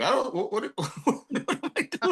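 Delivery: imitating a rattled actor, high-pitched; mock panicked stutter, breaking into laughter; flustered stammer. Nervous actor stared down, retold.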